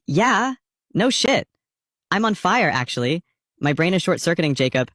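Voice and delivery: squeaky, flustered high voice; flustered and high-pitched. Retold or imitated. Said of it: "And I'm like".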